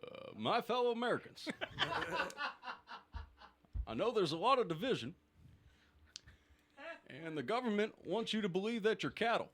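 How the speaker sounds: a hint of an Obama speech, half laughing; Obama impression. Asked to do the round as Obama, a light Obama impression. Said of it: "you have to do it as Obama".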